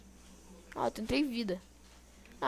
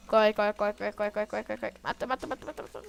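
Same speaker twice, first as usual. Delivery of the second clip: being chased; 5 dB louder than usual. Real, not acted. Fleeing and fighting mob.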